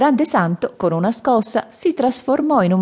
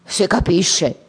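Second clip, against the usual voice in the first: envious grunt; 3 semitones higher, slower than usual. Acted. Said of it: "grugnì invidioso Porcellino".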